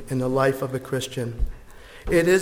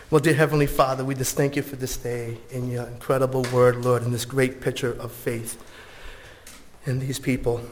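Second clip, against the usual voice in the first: prayer; 3 semitones lower than usual. Acted. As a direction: pray gently and sincerely. Closing prayer.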